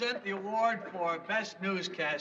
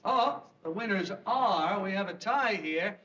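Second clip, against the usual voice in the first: announcing award nominees formally; awards presenter. Acted. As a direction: read nominees like an emcee. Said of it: "the nominees are".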